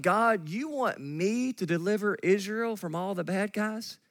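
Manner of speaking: lightly acted sarcastic disbelief; Gideon's sarcasm. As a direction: play mild, eye-rolling incredulity. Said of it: "you'd almost hear the sarcasm in Gideon's voice".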